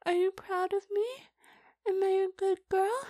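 bubbling with eager pride; excited. Acted. Excited praise-seeking.

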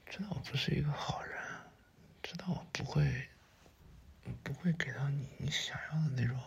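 hushed intimate questioning; tender, wondering murmur. Acted. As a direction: speak softly and haltingly to someone close. Tenderly asking why partner stays.

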